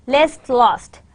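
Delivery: "Lest" with short e, "lost" with rounded o; minimal pair. Shown as a demonstration. Teacher reads minimal pairs to learners, distinct vowels. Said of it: "some minimal pairs".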